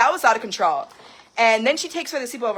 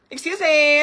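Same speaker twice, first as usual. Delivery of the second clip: slow, laughing, indignant "Excuse me" stretched out; 5 semitones higher, 5 dB louder, slower than usual. Real, not acted. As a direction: drag out "Excuse me" with a scoffing laugh. Repeats excuse me, emphatic.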